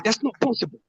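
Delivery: mock quote. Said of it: "You be like".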